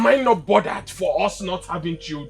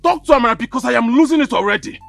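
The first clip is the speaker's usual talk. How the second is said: exasperated; 5 dB louder, faster than usual. Acted. Son exasperated complaining to father.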